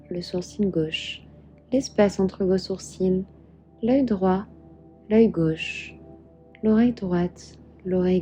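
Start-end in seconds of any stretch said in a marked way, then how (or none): none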